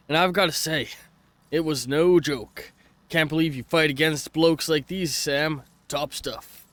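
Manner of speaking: put-on shaky stab at an Australian accent; amateur Australian accent, reading aloud; attempted Australian accent. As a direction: read the message in a badly faked Aussie accent. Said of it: "I cannot do an Australian accent".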